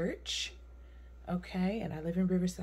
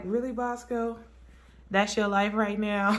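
amused; 4 semitones higher, 3 dB louder than usual. Retold or imitated. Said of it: "I'm just cracking up, like".

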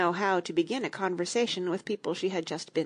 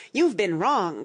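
louder indignant schoolboy cry; 6 dB louder, slower than usual. Acted. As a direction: call him out loudly. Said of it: "cried Tweedledum".

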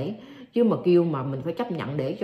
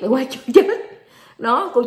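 much louder, higher, breaking into laughter; laughing; 7 semitones higher, 9 dB louder than usual. Retold or imitated. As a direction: laugh through the punchline. Grandchild's funny reply, retold.

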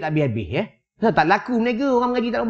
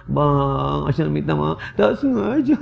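mock pleading, drawn-out and softer; apologetic wife; 3 semitones lower, 3 dB quieter, slower than usual. Wife hurrying to apologise to her husband, mock pleading. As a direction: beg forgiveness like a contrite wife, hammed up. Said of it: "cepat-cepat minta maaf".

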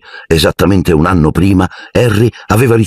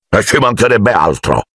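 vehement; 4 semitones higher than usual. A narrator's reading. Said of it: "disse zio Vernon con impeto".

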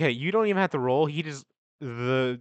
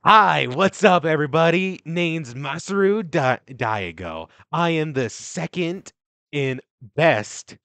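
cheery nurse; 3 semitones higher, 4 dB louder than usual. Acted. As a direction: bounce in like an overeager nurse.

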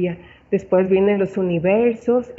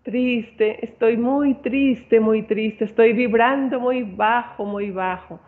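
lightly acted gloom, fading away at the end; a touch of sadness trailing off; mock sad reply; slower than usual. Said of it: "O puedes decir a una persona".

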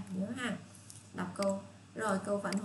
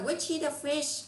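teacher model question; 7 semitones higher, 3 dB louder, slower than usual. Shown as a demonstration. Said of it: "Rồi".

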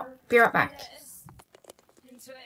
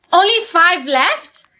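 upset; 7 semitones higher than usual. Acted. Upset at friend wasting her blinks.

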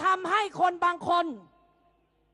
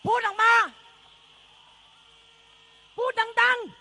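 raised, higher demand to the crowd; loud call-out; 6 semitones higher, 4 dB louder than usual. Real, not acted. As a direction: call out to them, louder and higher. Crowd urged to speak out. (ตะโกนเรียกร้องเสียงดัง)

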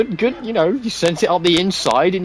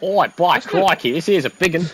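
hammed-up Australian accent, lightly voiced; bad Australian accent. Joking about being the crocodile hunter, mock Australian accent. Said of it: "very bad Australian accent pretending".

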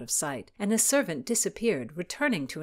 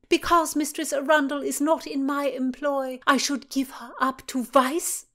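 high, loud rising indignation; righteous outrage; 8 semitones higher, 6 dB louder than usual. A narrator's reading. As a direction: shame him before the court. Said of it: "voice vibrate with righteousness".

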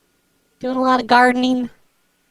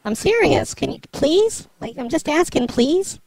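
small, earnest begging; pleading; 2 semitones higher, 3 dB quieter than usual. Acted. Caller begs neighbor to turn off Wi-Fi, pleading. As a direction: plead gently, lifting at each please.

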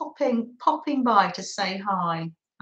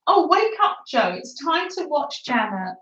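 playful wake-up call; 3 semitones higher than usual. Pretend. Host rouses Joe to watch, playful wake-up call. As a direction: call out as if rousing a sleeper. Playfully waking a dozing viewer.

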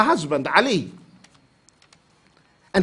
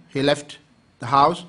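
normal talking voice

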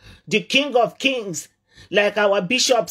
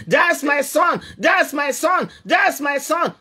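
joyful father's shout; 2 semitones higher than usual. Acted. Father runs to greet son.

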